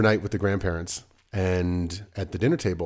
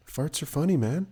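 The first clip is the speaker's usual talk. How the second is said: higher, gleeful endorsement; amused enthusiasm; 6 semitones higher than usual. Pretend. Parent admitting a guilty love of crude humour, gleefully amused. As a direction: let propriety go and enjoy the joke. Turns from stern disclaimer to delight.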